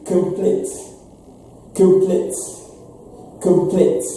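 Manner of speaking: complete with a weak first syllable and stress on plete; stress on second syllable. Shown as a demonstration. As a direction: say complete as k'm-PLEET. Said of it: "first syllable is without stress".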